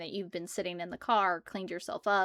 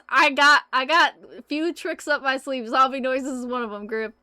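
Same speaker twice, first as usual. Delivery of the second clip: high, loud playful player voice; mimicking Tiffany; 4 semitones higher, 9 dB louder than usual. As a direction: ham up a gleeful gamer bragging. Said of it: "I love how into it Tiffany gets".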